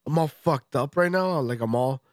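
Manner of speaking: blocked nose while talking; a stuffed-up cold voice; stuffy nose. Real, not acted. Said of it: "sick and stuffy".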